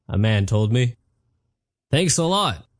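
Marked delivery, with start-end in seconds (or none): 1.9-2.7 sarcastic yell. Retold or imitated. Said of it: "I yelled".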